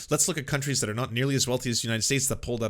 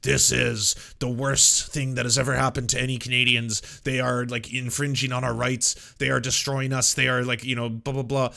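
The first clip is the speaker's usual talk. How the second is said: louder, hammed-up protester outrage; mock outrage; 4 dB louder than usual. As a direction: parody protesters crying tyranny. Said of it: "All of them are like".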